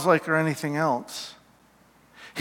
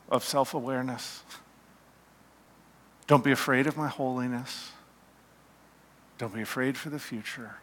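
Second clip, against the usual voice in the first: tender reassurance; 3 semitones lower, 8 dB quieter, faster than usual. Acted. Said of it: "in compassion and love and forgiveness".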